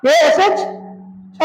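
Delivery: केएसएच छ stretched out, the ना held long; dragging the letters so students join in; slow, drawn-out spelling. Shown as a demonstration. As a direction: spell केएसएच छ slowly to prompt the class. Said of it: "बोलो जल्दी".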